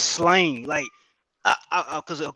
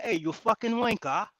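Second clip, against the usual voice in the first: mock British accent; 4 semitones higher, 5 dB quieter than usual. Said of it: "Why the fuck we ain't saying shit like".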